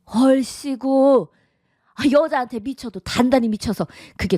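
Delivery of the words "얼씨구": sarcastic scoff. Acted. Mother mocks son's praise.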